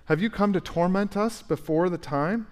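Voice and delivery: high, panicked pleading; a demon begging not to be tormented. Acted. Demons pleading with Jesus in high panic. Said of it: "I think they're panicked".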